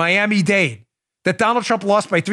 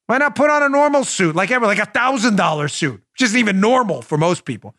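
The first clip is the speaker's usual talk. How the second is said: ordinary talk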